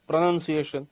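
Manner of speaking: પ્રોનાઉન્સિએશન reduced to pruh-nun-see-ay-shun; short pronunciation. Shown as a demonstration. Teacher showing how it is said short, reduced vowels. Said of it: "એમ short બોલે".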